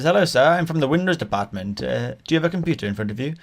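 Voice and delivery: lightly imitated Indian-accented caller. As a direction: put on a mild Indian accent. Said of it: "he definitely had an Indian accent".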